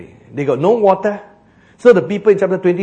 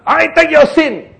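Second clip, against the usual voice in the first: Jesus speaking; 10 semitones higher, 7 dB louder, slower than usual. Acted. Jesus voiced taking sin.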